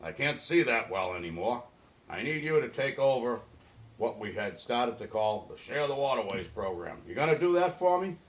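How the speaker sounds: a hint of an old man's rasp, quick at first; lightly voicing old Raz, rasping and brisk; raspy old Raz. Old boatyard owner asks Dave to take over, lightly raspy. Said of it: "told me in his raspy voice".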